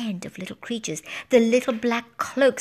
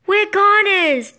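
high, loud drawn-out screech of doom; piercing panicked cry; 10 semitones higher, 8 dB louder, slower than usual. A narrator's reading. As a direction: screech it in despair. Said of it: "The harp screeched".

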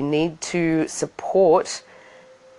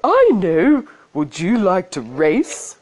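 bird voice; 3 semitones higher, 4 dB louder, slower than usual. Acted. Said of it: "the bird said".

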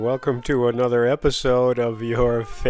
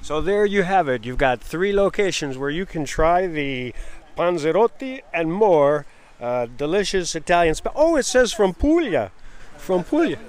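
excited; 5 semitones higher than usual. Real, not acted. Excited at street fair.

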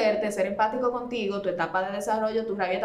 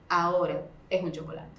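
lowered voice, gently final; calm firm limit; 4 semitones lower than usual. Acted. Mother holds the limit with child.

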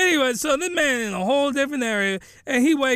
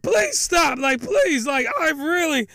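cracking voice; 4 semitones higher than usual. Retold or imitated. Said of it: "His voice is cracking".

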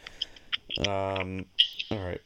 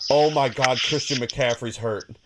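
surprised; 3 semitones higher, 5 dB louder than usual. Real, not acted. Learns star player is hurt.

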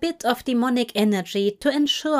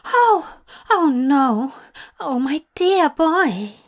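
high, gasping alarm; 6 semitones higher, 4 dB louder, slower than usual. A narrator's reading. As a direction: cry out in sudden worry. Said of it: "Aziraphale gasped in alarm".

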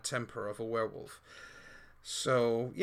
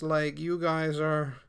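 slower, louder in-character voice; character speech; 3 semitones higher, 7 dB louder, slower than usual. Acted. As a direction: speak as the proud warrior. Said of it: "she says".

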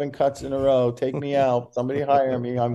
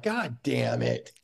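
muttered dismay; 4 dB quieter, much slower than usual. Retold or imitated. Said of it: "and you're like".

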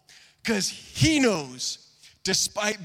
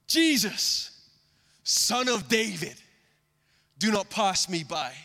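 crying out. Acted. Blind man calling out to Jesus from the roadside, crying out. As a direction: cry out to be heard. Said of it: "he cries out this".

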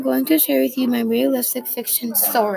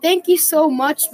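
grateful; 5 semitones higher, 6 dB louder than usual. A narrator's reading. Grateful kid thanks mom.

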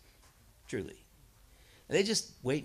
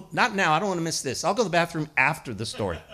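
eager students; 7 dB louder, faster than usual. Retold or imitated.

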